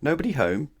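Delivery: high calling voice. A narrator's reading. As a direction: call out into the house. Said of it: "he called".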